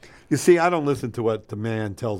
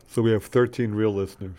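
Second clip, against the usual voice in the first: talking while chewing gum. Real, not acted. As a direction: chew gum as you speak. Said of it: "Can you stop chewing your gum?".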